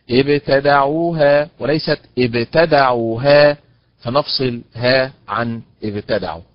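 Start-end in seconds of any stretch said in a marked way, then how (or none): 0.1-3.6 ابتدعوها slow, second take splitting off ها; right then wrong stress. Shown as a demonstration. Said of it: "بهذا الأداء المنحرف". (أداء صحيح ثم منحرف)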